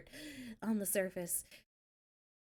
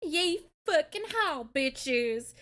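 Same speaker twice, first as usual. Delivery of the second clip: higher playful cowboy whoop; mock cowboy yeehaw; 3 semitones higher, slower than usual. Streamer playing off the Texan accent, cowboy whoop. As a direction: yell it like a rodeo cowboy.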